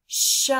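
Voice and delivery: loud breathy "Shut"; the word "Shut" for the child to repeat; whole word. Shown as a demonstration. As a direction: say "Shut" crisply. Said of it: "Your turn".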